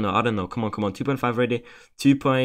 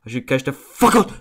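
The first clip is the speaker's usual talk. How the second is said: louder, blurting it out at last; sudden outburst; 5 dB louder than usual. Real, not acted. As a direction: break from muttering into a yell. Bursts out after muttering.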